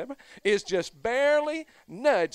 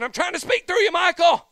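booming voice of God; 10 semitones higher, 10 dB louder than usual. Retold or imitated. God's voice in retold story.

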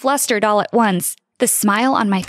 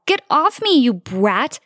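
shout; 2 semitones higher, slower than usual. Acted. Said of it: "I shouted at her".

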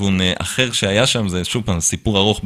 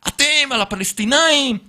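retold reply; 14 semitones higher than usual. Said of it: "אמרתי לו".

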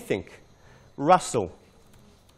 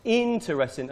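"Interesting" with IN higher and stressed; marking the stress; 4 semitones higher than usual. Shown as a demonstration. Teacher showing where stress goes, stressing first syllable. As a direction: lift IN in "Interesting". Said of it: "mark where the stress is".

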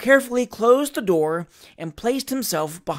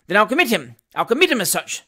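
high, loud angry magistrate; 4 semitones higher, 5 dB louder, faster than usual. Acted. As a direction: spit it out in a rage. Magistrate in rage.

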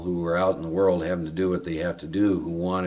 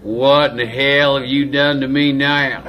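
loud, high, drawn-out mock wail of a big guy; Bobby W; 7 semitones higher, 11 dB louder than usual. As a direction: wail it slowly, imitating a tearful, bewildered tough guy. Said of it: "he's got just crocodile tears just pouring down".

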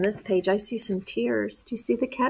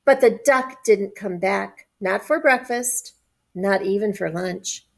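measured picture-book reading; story narration. A narrator's reading. Adult reading a picture book to children, story narration. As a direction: read it clearly to young children.

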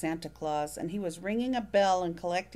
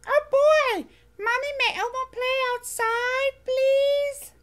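high, loud furry monster voice begging; thrilled little monster pleading to play; Elmo voice excited; 8 dB louder than usual. Acted.

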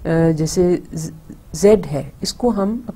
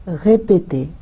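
रे, पे, ते run together fast; quick syllable run; slower than usual. Shown as a demonstration. Teacher quickly rerunning the syllables of répéter. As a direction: tap out répéter's three beats. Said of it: "syllables में तोड़ के बोलते हैं".

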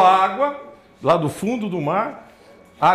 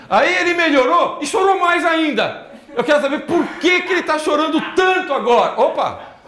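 laughing; 7 semitones higher, 4 dB louder than usual. Real, not acted. Laughing while showing baby photos.

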